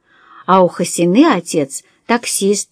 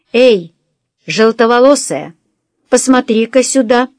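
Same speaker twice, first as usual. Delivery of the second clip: raised-voice taunting summons; calling out; 3 semitones higher, 3 dB louder than usual. Acted. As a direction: hail someone to turn round. Someone calls out to the girl.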